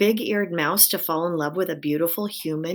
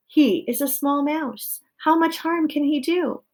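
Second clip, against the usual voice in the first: dismissive wife; 9 semitones higher, 4 dB louder than usual. A narrator's reading.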